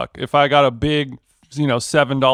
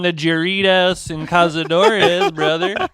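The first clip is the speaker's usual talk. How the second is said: Matthew McConaughey impression; 3 semitones higher than usual. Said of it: "sounds like Matthew McConaughey".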